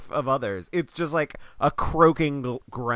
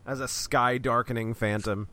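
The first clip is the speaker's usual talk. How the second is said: low, soft ominous prophecy; ominous villain voice; 4 semitones lower, 7 dB quieter than usual. Acted. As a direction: intone it like a dark phantom.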